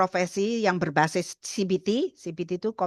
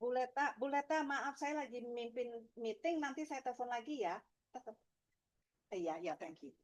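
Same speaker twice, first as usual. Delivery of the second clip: whispering on the phone; 3 semitones higher, 17 dB quieter than usual. Real, not acted. Aside on phone during meeting.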